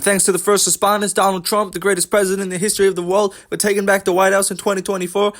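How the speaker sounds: high, put-on rally speech; Colby's shtick. Imitating a fighter's post-fight thanks, high put-on shtick. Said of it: "when you just repeat that".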